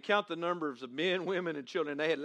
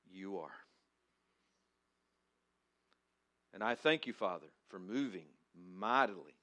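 prayer; 2 semitones lower than usual. Acted. Pastor praying before sermon.

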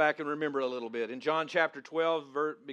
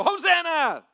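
"Hosanna!" shouted high and loud; full-voiced "Hosanna!" with a falling end; 12 semitones higher, 10 dB louder, slower than usual. Shown as a demonstration. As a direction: stand up and cry "Hosanna!" out loud. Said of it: "stand up and go".

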